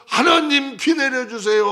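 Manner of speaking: high, loud, slow cry for rain; loud pleading prayer. Retold or imitated. Elijah on Mount Carmel begging for rain, loud slow plea. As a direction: beg God at the top of the voice.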